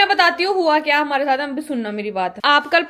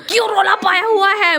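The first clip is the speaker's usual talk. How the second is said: retold yell; 4 semitones higher than usual. Woman retelling how she yelled at the noisy household, mild mock yell. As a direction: imitate your own early-morning yell without real force. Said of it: "मैं चिल्ला रही यहाँ".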